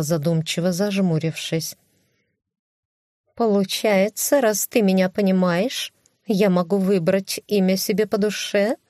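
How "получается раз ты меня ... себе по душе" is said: cat voice. Acted.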